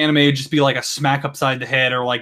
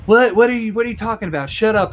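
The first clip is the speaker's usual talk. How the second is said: high-pitched oblivious girl impression; put-on clueless irritation; mock dismissive; 8 semitones higher, faster than usual. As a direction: brush them off, pitched up. Acts oblivious girl brushing him off.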